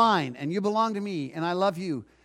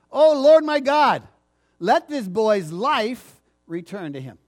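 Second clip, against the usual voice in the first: high, much louder desperate cry, slowing at the end; crying out to God; 5 semitones higher, 10 dB louder, slower than usual. Acted. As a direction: cry to heaven with everything. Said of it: "he cried out to the Lord".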